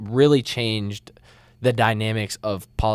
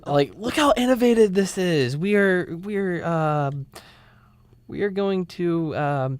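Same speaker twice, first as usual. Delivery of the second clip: lightly raised, mock-proud boast; mock proud official; 6 semitones higher than usual. Friend mocking the congressman's plan, a touch higher and mock-proud. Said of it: "mock congressman voice".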